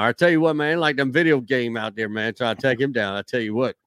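jumbled twangy ramble, falling off; Boomhauer twang. Acted. Co-host demonstrating the jumbled-up voice, Boomhauer twang. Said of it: "That jumbled up Boomhauer".

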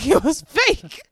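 laughing, slow and loud; cracking up while saying it. Real, not acted. Laughing at the fake check.

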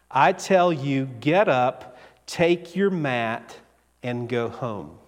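a calm, kind command to rise; Jesus gently tells the paralyzed man to go home; gentle command. Acted.

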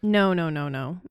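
raspy, sore sick-throat voice; hoarse sick voice. Real, not acted. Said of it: "My voice sounds terrible right now".

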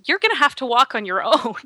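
startled. Retold or imitated. Boyfriend dropping his wounded girlfriend, mildly startled refusal. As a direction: imitate a rattled boyfriend backing out. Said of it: "he's so startled that he actually drops her".

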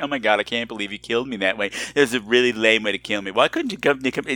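fast, low imitated griping; mock complaining. Podcaster imitating his friend haunting him with complaints, griping. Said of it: "He's always complaining".

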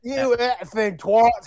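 drawn-out British telling-off, mildly yelled. Acted. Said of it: "He started yelling at us".

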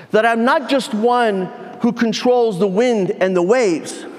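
measured, emphatic preacher's declaration with long pauses; lightly voiced Jesus. Preacher speaks as Jesus calling Peter onto the water, lightly voiced, declaring. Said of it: "And he says".

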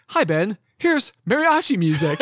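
lightly mocked Alexa voice; imitated voice assistant. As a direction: announce it like a smart speaker. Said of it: "it will be like".

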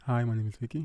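small, quiet hello; soft timid voice. Retold or imitated. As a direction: say it shyly and softly. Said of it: "they're like".

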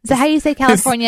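lightly put-on English accent, quick; mock British accent. Host teasing about the band, mock British accent. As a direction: tease in a faux English voice. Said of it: "is that your Californian accent".

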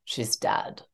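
almost whisper it; hushed news. Retold or imitated. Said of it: "And then he said".

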